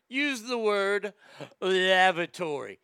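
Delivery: slow, drawn-out posh advice voice; mocking the etiquette lady's slow advice. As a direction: draw it out like a snooty etiquette guide. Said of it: "They say instead of saying".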